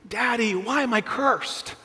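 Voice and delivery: slow, plaintive retold child's cry; imitating crying child. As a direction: plead like an upset little boy, mildly hammed-up. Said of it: "he's just crying".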